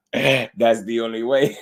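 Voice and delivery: slow mock Mexican accent, laughing; Canelo accent impression. Streamer savoring a boxer's line, laughing Mexican accent impression. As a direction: drag out the Mexican-accented catchphrase and crack up. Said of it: "I'm just making light of his accent".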